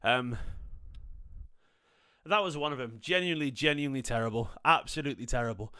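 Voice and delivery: breathless after running upstairs; panting between words; out of breath. Real, not acted. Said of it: "I'm out of breath 'cause I've just legged up my stairs".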